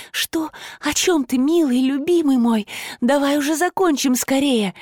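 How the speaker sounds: high, hurried chatter; rattling off. A narrator's reading. The princess babbles anxiously to her lover, high and hurried. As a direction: gabble it out in panic. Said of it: "затараторила будущая королева".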